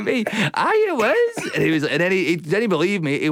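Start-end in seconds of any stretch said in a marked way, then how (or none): 0.0-1.5 high, rising indignant "aye, it was"; insist, voice climbing up high; mock outraged, much higher; exasperated insistence. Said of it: "I was like".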